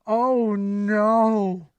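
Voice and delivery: horrified reaction, slowing on the question; dismayed. Retold or imitated. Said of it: "I just sat there like".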